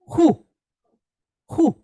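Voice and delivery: "Hu" with a breathy h and short u; sounding out syllable. Shown as a demonstration. Teacher sounds out the syllable for class, clear and deliberate. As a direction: sound out "Hu" on its own. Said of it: "how do we sound that syllable".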